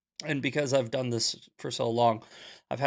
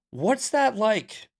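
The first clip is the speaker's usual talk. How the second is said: drawn out, higher and pointed; slow cutting question; 8 semitones higher, 4 dB louder, much slower than usual. Retold or imitated. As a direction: stretch each word to needle him. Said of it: "And I said it just like that".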